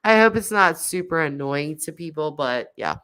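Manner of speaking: stuffy nasal sick voice; nasally voice. Real, not acted. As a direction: speak through a blocked nose. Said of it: "this really nasally voice".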